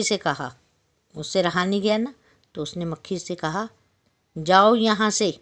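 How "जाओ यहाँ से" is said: annoyed lion. Acted. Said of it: "शेर को बड़ा गुस्सा आया".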